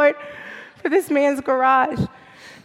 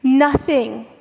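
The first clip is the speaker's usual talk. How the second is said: strained, hoarse voice; speaking through a lost voice. Real, not acted. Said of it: "This is just me having lost my voice".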